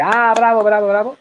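high mock audience cheers; cheering crowd. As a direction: imitate fans shouting bravo. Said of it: "la gente". (ovación imitada del público)

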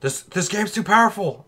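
high, panicky mock machine voice; hammed-up panicking computer; voicing the power supply. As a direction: play the power supply freaking out. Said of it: "it's like".

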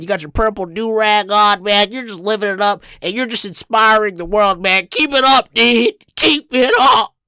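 upbeat stranger impression, building to high, loud cheering; gush, then cheer him on; smiling white dude. Smiling driver encouraging the skateboarder, building enthusiasm. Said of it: "he starts smiling and he's like".

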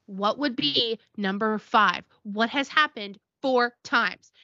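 slow, spelled-out exasperation; retold annoyance, dragging out each word; angry. Angry mom answering her child on the phone, exasperated. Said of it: "And she's all angry".

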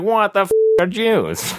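hammed-up confusion; mock baffled. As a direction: play total cluelessness. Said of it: "And I was like".

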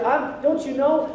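mock-whiny excuse; making excuses. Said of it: "Gideon makes this excuse".

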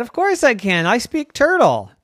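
put-on high, loud proud kid voice; boastful kid. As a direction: brag like a small boy. Boys boasting about turtle-speak.

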